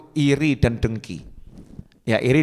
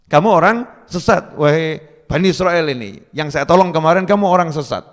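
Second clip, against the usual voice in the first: shouted rebuke; 3 semitones higher, 3 dB louder than usual. Retold or imitated. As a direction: shout it down at the troublemaker. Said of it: "Nabi Musa teriak ngomong".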